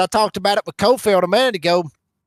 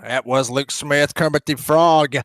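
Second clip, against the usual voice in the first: slow, lightly voiced frog puppet; a hint of a cartoon frog, slowed; Kermit the Frog voice; 6 semitones lower, slower than usual. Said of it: "I done a pretty good Kermit the Frog impression right there".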